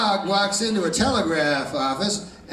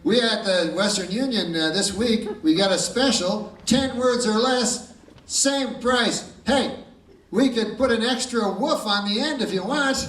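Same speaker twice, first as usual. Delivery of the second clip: higher salesman pitch; telegraph clerk voice; 6 semitones higher than usual. Acted. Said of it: "He goes".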